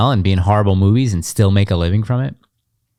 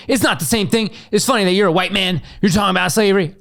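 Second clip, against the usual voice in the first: mock critic high voice; 9 semitones higher than usual. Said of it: "someone was like".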